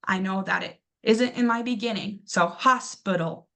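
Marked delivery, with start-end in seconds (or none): 2.5-3.5 slow, careful hospital for the class; slow demo word. Shown as a demonstration. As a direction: spell out hospital slowly, teacher style. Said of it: "find my schwa sound".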